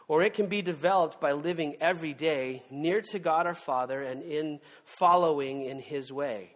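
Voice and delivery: measured recital of a wedding poem; solemn wedding poem reading; poem recitation. Acted.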